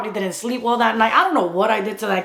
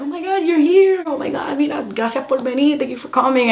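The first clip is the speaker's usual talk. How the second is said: excited greeting; 5 semitones higher than usual. Retold or imitated. Church people greeting excitedly.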